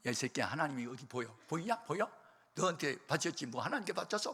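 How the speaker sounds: sneering rant about God; mocking angry retort. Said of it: "막 그래서 계속 욕을 하는 거예요".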